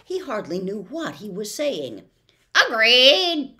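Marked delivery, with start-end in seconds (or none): 2.7-3.6 high, loud, snappish bird; sharp bird voice. Acted. The bird snaps back at Milo, high and loud. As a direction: bark it out like a pert bird. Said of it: "said the bird with a sharp click".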